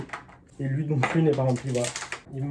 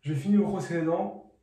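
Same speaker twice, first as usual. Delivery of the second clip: mumbling with toothbrush in mouth; while brushing teeth; 3 semitones higher than usual. Real, not acted. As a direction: talk around the toothbrush. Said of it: "parler de dentifrice dans la bouche". (en se brossant les dents)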